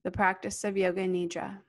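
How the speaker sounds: calm yoga nidra guidance, spacious and steady; guided meditation. Real, not acted. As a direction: guide them gently into stillness, unhurried.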